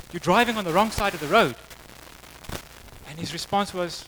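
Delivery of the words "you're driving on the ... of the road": slightly raised, urgent telling-off; acted cop's warning. Cop telling the driver he's on the wrong side, higher firm warning. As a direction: inform the driver firmly, pitched up.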